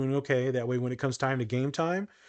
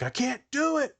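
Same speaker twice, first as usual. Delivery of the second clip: imitating crying; 12 semitones higher than usual. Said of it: "this individual just crying".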